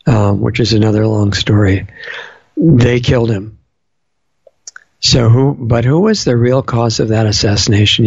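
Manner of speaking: hoarse, rough-edged speaking voice. Real, not acted. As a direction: talk through a worn, rough throat. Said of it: "I'm sorry for my rough voice tonight".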